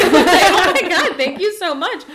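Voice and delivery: slow, laughing, gushing thanks; laughing mock gush. Imagining the payout, laughing mock thanks.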